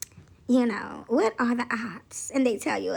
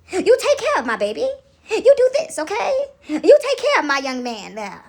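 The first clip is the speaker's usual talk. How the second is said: playful character giving orders; stretched-out, raised-pitch mock instruction; персонаж-наставница; 4 semitones higher, 4 dB louder than usual. Playful in-character charge to someone.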